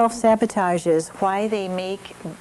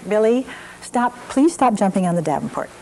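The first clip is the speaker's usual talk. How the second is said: polite parental reminder, name pitched up at the start; mild request; 3 semitones higher than usual. Acted. Mother asks son to stop jumping on the Davenport, mildly firm. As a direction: ask nicely but firmly, then settle back.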